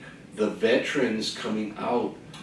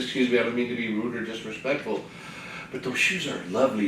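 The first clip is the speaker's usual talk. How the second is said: polite soft compliment; 2 semitones lower, 7 dB quieter, faster than usual. Retold or imitated. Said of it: "I said".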